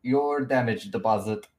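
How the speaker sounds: lightly voiced accented NPC, a bit flustered. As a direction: introduce your party in the NPC's accent.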